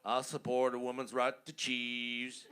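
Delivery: Al Gore impression. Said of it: "I'm gonna quote him".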